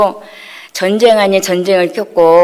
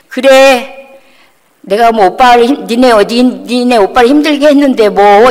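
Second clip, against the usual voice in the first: louder, raised-pitch retold snapping; imitated angry retort; 3 semitones higher, 5 dB louder than usual. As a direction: mimic mom lashing back. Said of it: "저를 이제 싸붙이기 시작을 하는".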